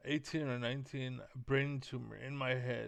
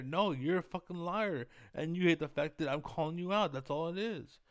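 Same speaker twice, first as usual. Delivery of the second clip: angry call-out; 4 semitones higher, 3 dB louder than usual. Real, not acted. Angry rant calling someone out.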